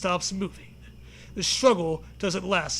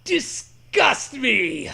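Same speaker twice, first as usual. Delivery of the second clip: mock scream; 5 semitones higher, 5 dB louder, much slower than usual. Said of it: "You scream at the sky".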